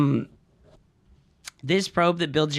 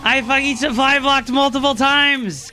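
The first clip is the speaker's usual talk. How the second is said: a loud, high, anguished yell of defeat; furious shout; 10 semitones higher, 5 dB louder, slower than usual. Real, not acted. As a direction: scream no as the game slips away. Losing to proxy rush.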